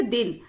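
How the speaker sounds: दिन with a brief, relaxed i; short vowel. Shown as a demonstration. Teacher showing the short i matra, short relaxed दिन. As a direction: say दिन easily, without stretching it. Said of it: "आराम से इसे बोलेंगे".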